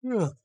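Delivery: sleepy drawn-out yawn. Real, not acted. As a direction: yawn through the sound. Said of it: "Pardon my yawn".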